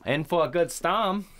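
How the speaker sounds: mock Down East Maine accent. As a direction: drop the R's like a Mainer. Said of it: "the Maine accent is hilarious".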